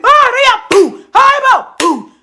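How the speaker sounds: high, loud panicked cry of her name; re-enacting screaming for her as the bombs go off; retold scream. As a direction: scream it out in alarm. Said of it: "I'm screaming".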